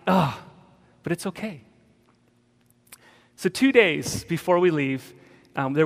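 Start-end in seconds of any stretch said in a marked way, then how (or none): 0.1-0.4 acted groan of frustration; mad groan. Showing how he rages in prayer, frustrated groan. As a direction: groan as if worn out from yelling. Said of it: "I'm so mad".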